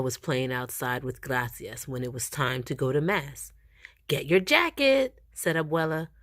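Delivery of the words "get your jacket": high, urgent calling out; hurried call. A narrator's reading. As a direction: call out in a rush. Grandma hurrying boy to Mass.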